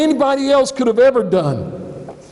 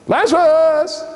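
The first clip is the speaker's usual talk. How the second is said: calling out; 6 semitones higher than usual. Retold or imitated. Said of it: "called out to somebody".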